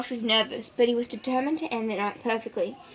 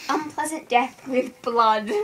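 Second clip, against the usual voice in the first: slow, ominous title announcement; announcing the story title, slow; dramatic title read; slower than usual. Acted. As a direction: savour each word like a horror title. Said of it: "I'm the story reader".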